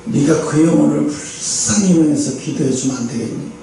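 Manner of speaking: lightly voiced soft, low God; a hint of God's low gentle question. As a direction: ask tenderly, as God.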